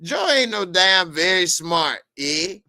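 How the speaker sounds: high, swooping, halting intellectual voice; hammed-up impression, pitch leaping and falling; Jordan Peterson. Guest professor flattering Joe, mock intellectual impression. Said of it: "I had to talk like Jordan Peterson".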